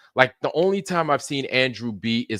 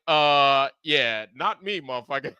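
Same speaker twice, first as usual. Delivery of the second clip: laughing retort; 4 semitones higher than usual. Retold or imitated. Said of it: "And I was like".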